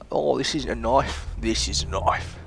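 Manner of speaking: mock-Aussie film-line delivery; bad Australian accent. Showing off the knife, joking Australian accent. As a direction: quote it in a put-on Australian accent. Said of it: "I can't do the Australian accent very well".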